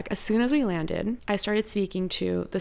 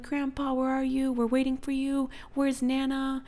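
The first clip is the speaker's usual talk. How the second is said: put-on lightly raised child voice; grandkids; 6 semitones higher than usual. Grandkids on FaceTime asking grandpa where he is, higher kid voice. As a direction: play a kid calling grandpa, a bit higher. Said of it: "they were like".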